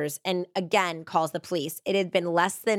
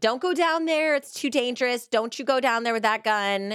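high, mild, held-back half-shout; 5 semitones higher than usual. Retelling little Carolyn screaming at Big Carolyn: retelling a scream. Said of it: "was screaming at Big Carolyn".

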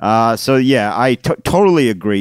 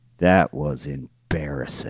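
very quiet, soft, aside-like voice; 7 semitones lower, 8 dB quieter than usual. Retelling what the team captain said after a lost match: imitating someone speaking quietly. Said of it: "our team captain just goes real quietly".

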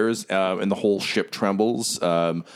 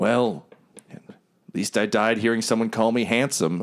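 weary, resigned alien voice; 2 semitones higher than usual. Voicing an Ugnaught driver as his ship is about to explode: eye-rolling resigned Ugnaught. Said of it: "he just rolls his eyes and he goes".

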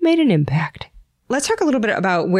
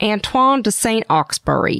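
put-on Texan accent; 2 semitones higher than usual. Pronouncing a french author's name he can't pronounce, with a texas accent. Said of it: "try pronouncing it with a Texas accent".

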